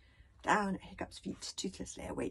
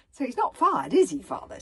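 loud, raised-pitch anxious question; 6 semitones higher, 11 dB louder than usual. A narrator's reading. Hiccup asks his father about the bodyguard's job, anxious. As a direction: ask it with a touch of worry. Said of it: "said Hiccup anxiously".

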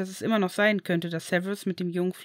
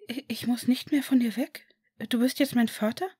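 put-on higher, hesitant child's voice, stammering in disbelief; disbelieving boy; 4 semitones higher than usual. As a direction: ask as if afraid to hope. (höhere, zögernde Kinderstimme, ungläubig)

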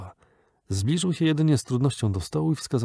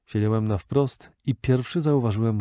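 usual speaking voice

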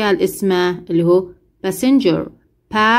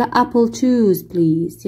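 slow, careful passenger reply; very slow model reading; much slower than usual. Shown as a demonstration. Teacher playing the passenger, slow model answer. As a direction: lay out every word for repeating. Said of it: "والثاني هو المسافر".

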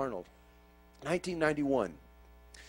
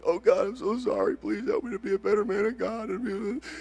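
imitating a crying prayer, higher and pleading; mock tearful plea; 7 semitones higher than usual. Preacher mocks his old teary apology to God. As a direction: whimper it like the old guilty self. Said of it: "Instead of crying and going".

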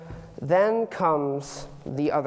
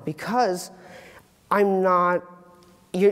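normal talking voice

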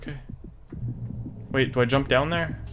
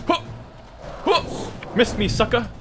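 gleeful taunting; 8 semitones higher than usual. Real, not acted. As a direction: rub it in with glee. Taunting dodged monster.

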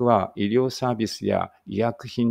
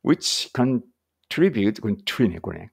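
slow, deliberate English read-aloud; slow careful reading; slower than usual. Shown as a demonstration. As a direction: read each phrase out slowly for learners.

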